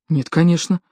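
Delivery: ordinary delivery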